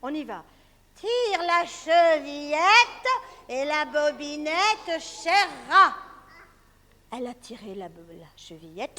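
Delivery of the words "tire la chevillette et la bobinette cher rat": slow, loud fake granny; wolf imitating granny. Wolf faking grandmother's voice for the girl. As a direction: sweeten the wolf's voice, slowly. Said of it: "avec une voix de loup qui imite la mère grand".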